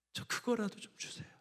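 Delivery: desperate whispered begging; humble whisper. Acted. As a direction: beg for crumbs in a hush. Woman humbly begs for crumbs.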